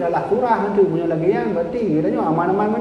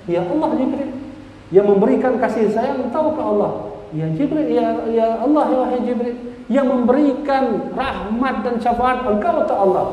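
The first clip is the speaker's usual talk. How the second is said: pleading Prophet; 7 semitones higher than usual. Acted. Prophet answers Jibril.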